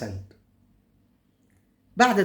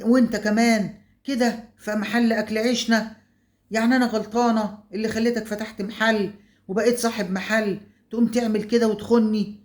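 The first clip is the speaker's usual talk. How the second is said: higher, heated retold scolding; mock angry scolding; 5 semitones higher than usual. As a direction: berate them both in a raised, higher voice. زوجة تشتم زوجها والتانية. (توبيخ غاضب مستعاد بصوت أعلى)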